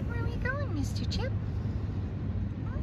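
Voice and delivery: high sing-song voice for a small pet; high pet talk. Real, not acted. Talking to her pet.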